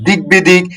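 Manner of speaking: দিক বিদিক said "dig-bidik", b fully sounded; দিক বিদিক run together with a full b; unchanged b. Shown as a demonstration. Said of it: "অবিকৃত".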